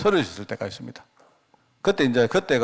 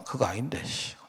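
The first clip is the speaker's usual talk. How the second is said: very soft grumble under the breath; retold silent protest, barely voiced; inner grumble; 11 dB quieter than usual. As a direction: grumble to yourself, fading into a whisper. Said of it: "그 속으로 내가".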